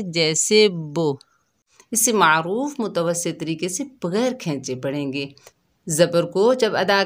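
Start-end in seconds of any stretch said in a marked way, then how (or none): 0.7-1.2 बो said with a rounded o instead of u, slowly; majhool vowel. Shown as a demonstration. Teacher shows children the majhool mistake, rounded o. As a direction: read बो the wrong majhool way. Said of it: "मजहूल नहीं पढ़ेंगे".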